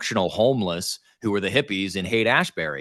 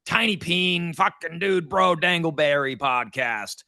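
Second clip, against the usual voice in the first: mock dude-bro podcaster; 3 semitones higher than usual. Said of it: "I hate every podcast, it's like".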